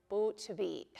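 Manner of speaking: "bootvi" cut off by the throat at the end; final glottal catch. Shown as a demonstration. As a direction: finish "bootvi" on a little throat catch, carefully. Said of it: "that little catch right at the end".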